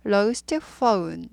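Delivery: lost phone slowly, phone as foh-oon; slow teacher's lost phone, phone gliding o to u; model pronunciation. Shown as a demonstration. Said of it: "이렇게 되죠".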